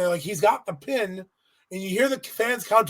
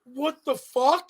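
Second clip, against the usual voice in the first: slow, high, laughing; amused slow disbelief; 6 semitones higher, slower than usual. Retold or imitated. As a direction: laugh through the question. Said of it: "And I was like".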